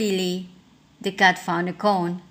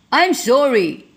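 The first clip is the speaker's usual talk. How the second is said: higher, louder panicky dragon; frightened splutter; 6 semitones higher, 6 dB louder than usual. A narrator's reading. Scared dragon apologizes to the beast, panicky and high. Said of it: "he spluttered".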